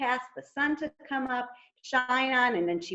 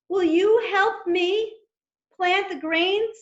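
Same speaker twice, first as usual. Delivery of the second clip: higher, slow and pleading; little hen voice; 8 semitones higher, 4 dB louder than usual. Acted. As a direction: ask sweetly like a little hen. Hen asks friends for help.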